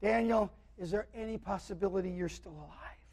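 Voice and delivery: acted sorrowful plea, trailing into near silence; lamentable voice. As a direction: imitate a mournful cry that sinks away. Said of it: "he cried with a lamentable voice".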